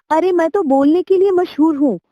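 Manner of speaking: hammed-up squeal of protest; squawking cry. Parrot protesting the doctor's advice in a high, hammed-up squawk. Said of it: "तोता चीखा".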